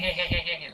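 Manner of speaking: villain laugh. Retold or imitated. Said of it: "He definitely laughed like".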